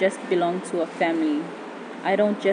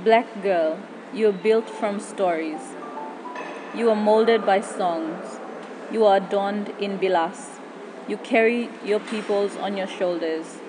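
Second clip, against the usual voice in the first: poem recitation. Acted. Spoken word poem over music.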